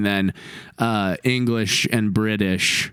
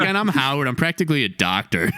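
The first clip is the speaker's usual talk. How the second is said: 1 Howard Stern; 2 semitones higher, faster than usual. Retold or imitated. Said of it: "He's like".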